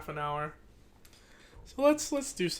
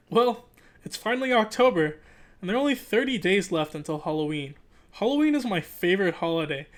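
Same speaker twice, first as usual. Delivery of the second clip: animated read-aloud narration; story narration; 2 semitones higher, 4 dB louder than usual. Acted. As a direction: read it like a kid's diary, lively. Reads the book aloud.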